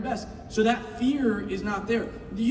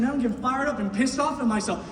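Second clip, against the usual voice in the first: fired-up self-talk. Retold or imitated. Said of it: "I'm sitting there and I'm saying".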